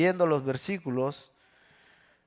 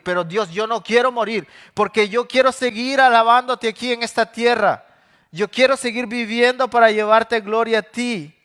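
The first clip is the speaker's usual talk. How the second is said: louder, higher, urgent begging; desperate plea; 4 semitones higher, 4 dB louder than usual. Acted. David begging God to let him live, loud desperate plea. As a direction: plead for your life.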